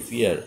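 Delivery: ফিয়ার said clearly as fee-ar, two syllables; fear pronounced. Shown as a demonstration. Teacher showing students how to say fear: ফিয়ার, clear demo. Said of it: "fear উচ্চারণটা হবে কি?".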